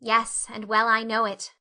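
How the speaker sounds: mournful. Acted. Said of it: "admitted Anne mournfully".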